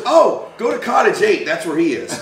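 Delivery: high-pitched imitation of a receptionist who finally gets it; helpful receptionist. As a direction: send him on his way in a high voice. Receptionist now helpful, retold.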